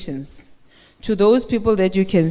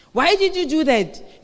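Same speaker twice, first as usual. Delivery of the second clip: a slow, accusing question pitched higher; mock scolding; 6 semitones higher, slower than usual. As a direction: demand to know why, slowly and higher. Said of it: "you're being shouted at".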